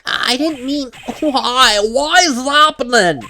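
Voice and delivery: distressed pleading. Acted.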